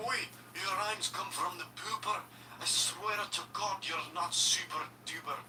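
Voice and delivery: mock Scottish accent. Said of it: "I guess that's more Scottish".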